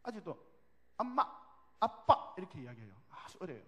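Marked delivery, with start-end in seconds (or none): 1.0-2.3 lightly voiced toddler words; hint of a small child; three-year-old child. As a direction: say it like a little one just learning to talk. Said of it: "우리 막둥이가 세 살인데요".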